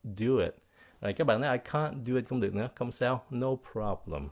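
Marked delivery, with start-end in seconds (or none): 0.0-0.6 CAN'T said the British way, with a broad 'ah'; British pronunciation. Shown as a demonstration. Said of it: "người Anh là". 1.6-2.2 British CAN'T with a broad 'ah'; British pronunciation. Shown as a demonstration. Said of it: "người Anh là".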